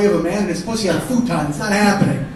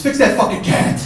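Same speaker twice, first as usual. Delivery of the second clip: angry retort; 5 dB louder than usual. Acted. Shouted retort to brother.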